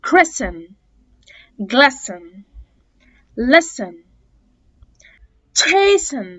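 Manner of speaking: each word read with the t silent, "listen" as "lissen". Shown as a demonstration. Teacher listing words with silent t. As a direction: model each word without the t. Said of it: "التي مش هتتنطق".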